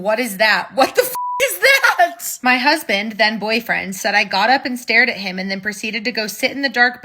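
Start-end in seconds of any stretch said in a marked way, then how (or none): 0.0-2.4 mock scream. Boyfriend screaming at something in the dark, mock scream. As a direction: yelp it like a startled sleeper. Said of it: "sit up and scream".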